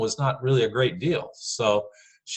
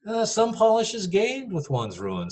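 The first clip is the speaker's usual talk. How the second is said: sarcastic; 12 semitones higher than usual. Shown as a demonstration. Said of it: "that kind of sarcasm".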